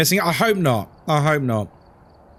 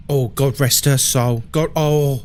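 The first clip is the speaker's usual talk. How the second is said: lightly voiced sighing nan; a hint of a mournful old nan; British nan impression. Streamer's nan lamenting a poor neighbour, lightly voiced. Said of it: "I just did an impression of every white British person's nan".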